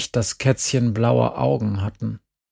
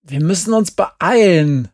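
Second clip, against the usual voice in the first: urgent loud call, pitched higher; 7 semitones higher, 7 dB louder than usual. A narrator's reading. Glenn urging the others to hurry, loud and tense. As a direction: hurry them along, voice up and loud. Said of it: "rief Glenn".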